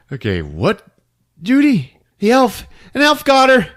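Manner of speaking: annoyed. Retold or imitated. Dad angry at daughter.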